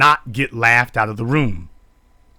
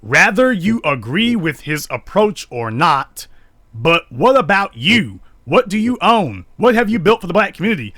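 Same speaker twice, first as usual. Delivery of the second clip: high, mocking read of her words; a lightly mocking imitation of the woman; mocking her statement; 6 semitones higher, 4 dB louder than usual. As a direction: parody her defiant challenge, rising high. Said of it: "Now, she goes on to say".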